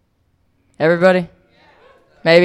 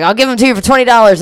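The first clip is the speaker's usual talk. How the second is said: higher, fast hustler pitch; pushy seller; 6 semitones higher, faster than usual. Retold or imitated. Street hustler selling her empty gas tanks, quick higher mock voice. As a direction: rattle off the sales pitch quickly. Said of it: "And he was like".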